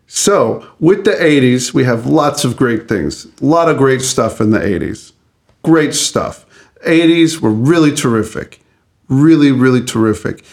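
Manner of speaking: lightly voiced Southern lawyer; easy salesman charm with a hint of drawl; honeyed southern lawyer drawl. Shown as a demonstration. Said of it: "I would like to do it in this voice".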